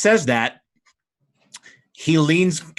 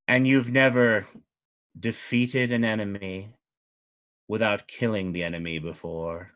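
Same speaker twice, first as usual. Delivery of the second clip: lower, measured courtly voice; regal fey duke; 3 semitones lower, 3 dB quieter than usual. Acted. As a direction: speak as an ancient fey lord.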